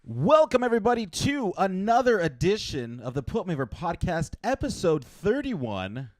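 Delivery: high, loud show opening; announcer. Acted. Opens the podcast.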